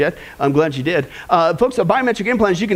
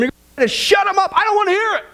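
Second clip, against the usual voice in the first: mock protest; 7 semitones higher, faster than usual. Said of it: "I know exactly what you're gonna do".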